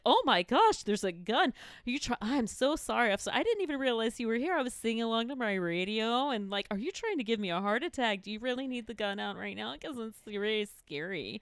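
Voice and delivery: mock-meek apologizing, words tumbling out; docile, flustered apology. Startled driver meekly apologizing to an armed cop, docile and flustered. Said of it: "I went so docile".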